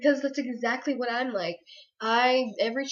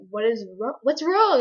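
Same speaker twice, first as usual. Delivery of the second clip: mom's worried question; 6 dB louder than usual. Retold or imitated. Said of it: "She's like".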